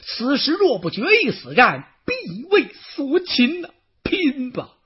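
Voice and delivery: high, loud desperate battle cry; desperate shout. Acted. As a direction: roar it like a cornered general. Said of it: "袁绍大叫一声". (绝望地高声大喊)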